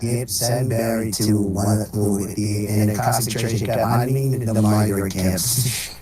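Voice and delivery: voice changer. Pretend. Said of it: "voice changer for Donald Trump".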